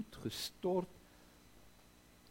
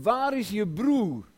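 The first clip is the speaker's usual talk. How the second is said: God calling out; 7 semitones higher, 10 dB louder than usual. Acted. God calls to Cain.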